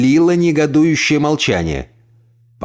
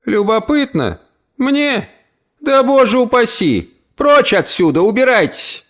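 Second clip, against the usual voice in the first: put-on high, sharp old woman driving him out; indignant old aunt; 12 semitones higher than usual. Old aunt drives the visitor out, high and indignant. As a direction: shoo him off, offended.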